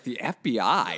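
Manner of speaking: retold disbelief, voice lifting on the question; incredulous question. Recalling his date's threat, asks it back in mild disbelief. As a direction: echo her words back as if they can't be real. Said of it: "I was just like".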